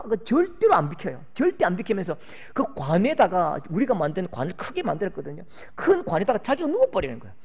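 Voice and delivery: usual speaking voice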